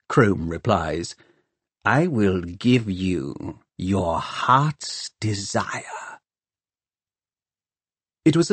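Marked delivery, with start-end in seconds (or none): 1.8-6.2 slow sinister promise. Acted.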